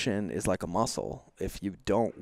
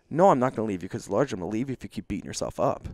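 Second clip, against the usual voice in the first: imitating wife retort; 4 semitones higher, 6 dB louder, much faster than usual.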